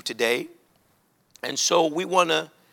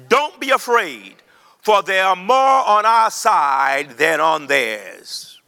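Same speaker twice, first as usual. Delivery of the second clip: call and response; slower than usual. Shown as a demonstration. Preacher leads the church in repeating, slow and ringing. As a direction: lead the congregation, slow and ringing. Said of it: "One more time".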